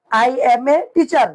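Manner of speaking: drawn out word by word; very slow model. Shown as a demonstration. Teacher slowly models the English answer for students. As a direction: stretch it out for learners. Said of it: "ইংরেজি হবে".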